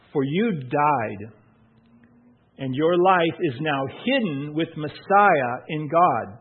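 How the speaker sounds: slow, measured scripture reading. Acted. Pastor reading Colossians to the church, slow and measured. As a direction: read it slowly, giving each phrase weight.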